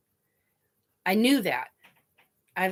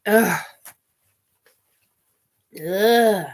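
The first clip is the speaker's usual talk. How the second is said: loud, real "ugh"; tearful groan; 7 dB louder than usual. Real, not acted. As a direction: groan while pulling yourself together. Wiping nose, overcome by crying.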